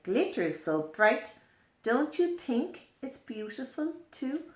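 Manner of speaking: a spider proud of its dewy web; spider character. Acted. Spider speaks in the book.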